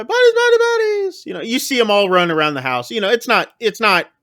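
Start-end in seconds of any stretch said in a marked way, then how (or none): 0.0-1.2 high, loud yell of the game call. Retold or imitated. Party guest calling out the game, loud high yell. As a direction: shout it to start the panic. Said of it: "someone just yells".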